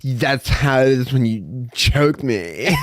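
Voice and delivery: slow, unbothered payback; mock him slowly and coldly; cold taunt. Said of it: "She's like".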